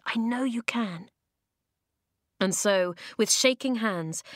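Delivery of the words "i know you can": reassuring. Acted. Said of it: "Eska murmured".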